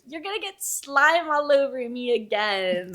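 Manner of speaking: slow, drawn-out mock complaint from the heroine; whiny heroine. Slow mocking complaint. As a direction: heroine grumbling to the monster about slime, slow and mocking.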